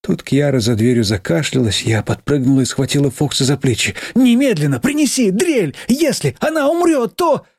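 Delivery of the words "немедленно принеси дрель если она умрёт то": high frantic demand; panicked. Acted. Girl begs Fox in panic for the drill, high. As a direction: fear for the child breaking through.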